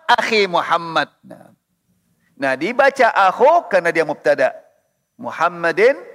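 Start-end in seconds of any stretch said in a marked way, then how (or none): 0.1-1.1 "akhi Muhammad" with i ending akhi; case change. Shown as a demonstration. Teacher showing ending change, "akhi" with clear i.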